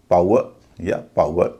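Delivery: "पावर या पावर" with a clear au glide, slowly; British and American pronunciation. Shown as a demonstration. Teacher showing learners British and American "पावर या पावर", careful au pronunciation. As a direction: say "पावर या पावर" slowly as pau-er, two ways. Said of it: "इन शब्दों का उच्चारण इस तरह होगा".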